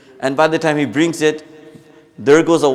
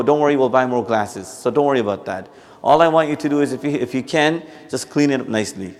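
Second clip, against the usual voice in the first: gentle reassuring tone. Shown as a demonstration. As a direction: reassure the son kindly, no blame. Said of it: "You see the difference between the two tones?".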